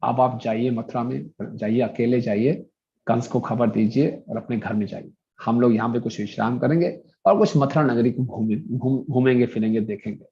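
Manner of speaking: understated smiling humility; humble, smiling. Retold or imitated. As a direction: speak with a modest smile, retelling a kindly instruction. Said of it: "विनम्रता से मुस्कुराते हुए बोले".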